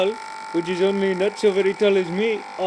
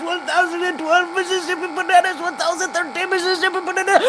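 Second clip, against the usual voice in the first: counting on one breath, rising higher and more strained; straining out of air; 3 semitones higher than usual. Pretend. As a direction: squeeze out the count as air runs out. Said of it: "I can hold upon my breath".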